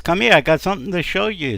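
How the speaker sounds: husband urging his wife to come; calling her over. Acted.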